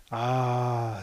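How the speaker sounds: a soft, low sighing "Ah"; a low sigh of longing; group sigh. A narrator's reading. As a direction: let it out as a shared sigh. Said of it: "sighed the group in unison".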